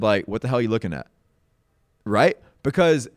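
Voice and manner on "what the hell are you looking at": hostile. Shown as a demonstration. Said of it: "that sounds a lot better with".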